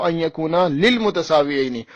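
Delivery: slow recital with extra lil- in للمتساویین; quoted misreading. Retold or imitated. Debater demanding a book with this misreading, lil- in للمتساویین. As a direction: recite slowly, keeping the wrong lil- in للمتساویین. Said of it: "جس میں لکھا ہوا ہو".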